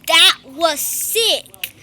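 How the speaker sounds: That was sick stretched very slowly; very slow, savoured. Real, not acted. Gamer savouring the moment to viewers, very slow. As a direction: linger on each word of That was sick.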